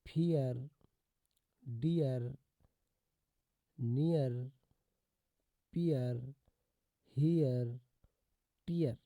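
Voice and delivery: "फियर, डियर, नियर, पियर, हियर, टियर" each as a drawn ee-ar; firm spaced drill of the ee-ar in "डियर" and "हियर"; EAR pronunciation. Shown as a demonstration. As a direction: sound out each rhyme separately, "फियर" to "टियर". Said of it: "ईए का sound देता है".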